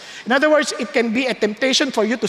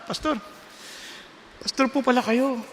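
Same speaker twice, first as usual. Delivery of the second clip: put-on softer, timid young believer asking for prayer; child's soft plea; 5 dB quieter, faster than usual. Child on a plane asks the traveling pastor for prayer, softly. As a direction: plead gently like a shy child to a pastor. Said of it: "Sabi ng bata".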